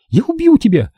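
high, slowing threat; furious threat. A narrator's reading. Nina struggling on his shoulder, shrieking threats. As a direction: hurl the threat, beside yourself.

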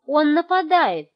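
a loud, slow alarmed cry; panicked cry. A narrator's reading. Margo warns the family the bear attacks, a loud slow cry. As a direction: sound the alarm.

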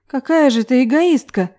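plain reading voice

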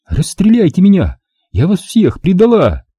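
too calm creepy doll. A narrator's reading. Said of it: "размеренным, безжизненным, как у механической куклы, голосом".

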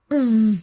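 стон. Acted. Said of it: "стонала в его губы".

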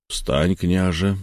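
slow, firm command from an elder; a hint of a stern wise elder; firm elder's voice. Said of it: "твёрдым густым голосом сказал старец".

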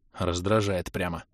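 тихо, низко, медленно цедить; сдержанное раздражение сквозь зубы; процедить сквозь зубы. A narrator's reading. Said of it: "процедил я". (цедить слова с досадой)

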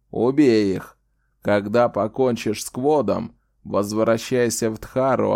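put-on slow, menacing old wizard; sinister threat. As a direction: lean in and threaten, slowly. Old wizard commanding a beast.

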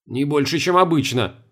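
sly, snide reply. Acted. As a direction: needle him slyly. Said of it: "ехидно ответил Чертанов".

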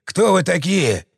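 slow, pained moan. A narrator's reading. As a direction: groan the words out, wounded. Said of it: "простонал раненый".

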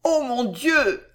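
high, slow gasp of dismay; drawn-out, high-pitched cry of concern; soft, trembling emotion. A narrator's reading. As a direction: exclaim slowly, overcome with emotion. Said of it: "une voix douce et tremblante d'émotion".

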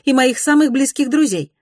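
high, loud haughty lady voice; cold society lady putting a stranger down; voiced as a proud lady. A narrator's reading. Mrs Glenorm voiced, haughty.

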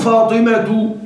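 "فاطمة" said slowly as "Fatimatu"; damma without tanween. Shown as a demonstration. Teacher showing a diptote, "فاطمة" ending in "-tu" without n. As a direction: sound the t of "فاطمة" and end on long-held u. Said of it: "بدون تنوين".

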